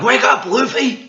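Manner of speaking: high, slow, loud call to wake him; wake-up shout. Acted. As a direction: yell it across the ship to rouse a sleeper. Crew shouting to wake Luffy.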